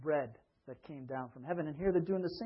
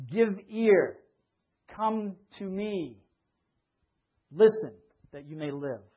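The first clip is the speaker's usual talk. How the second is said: scripture reading; 4 dB louder than usual. Acted. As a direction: call out the Lord's invitation with weight. Reads Isaiah with preaching force.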